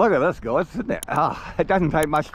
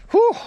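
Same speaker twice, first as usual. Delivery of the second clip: breathless whew; 10 dB louder than usual. Real, not acted. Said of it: "He's out of breath".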